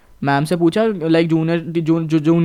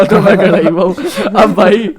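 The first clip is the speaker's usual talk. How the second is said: louder, laughing through the words; laughing as he recalls standing there; 5 dB louder than usual. Real, not acted. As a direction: crack up while telling it. Laughing at his own story.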